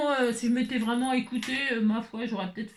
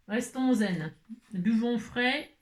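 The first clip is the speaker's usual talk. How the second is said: mock calm slogan; much slower than usual. Jokey calming slogan.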